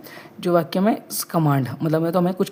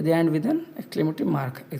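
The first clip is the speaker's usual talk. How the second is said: slow dictation; much slower than usual. Shown as a demonstration. Teacher dictating definition again.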